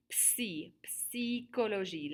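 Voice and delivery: "Psy" isolated with P and S both sounded, then slow "psychologie". Shown as a demonstration. Teacher shows class the opening sounds, P sounded in "psychologie". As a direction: break off "Psy" with an audible P, then say "psychologie" slowly. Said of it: "We're actually pronouncing the P".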